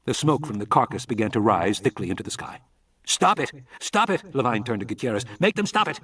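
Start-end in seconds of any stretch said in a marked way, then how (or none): 3.1-4.3 much higher, desperate shouting; urgent yell. A narrator's reading. Levine watching the specimen burn, desperate yell. Carcass being burned. 5.4-6.0 much higher, desperate shouting; urgent yell. A narrator's reading. Levine watching the specimen burn, desperate yell. Pleading with Gutierrez.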